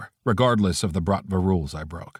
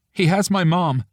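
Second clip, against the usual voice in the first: higher, breaking with tears; 10 semitones higher, 4 dB louder than usual. A narrator's reading. Friend confessing over the phone, voice breaking. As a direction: let the voice crack on mom. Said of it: "her voice breaking".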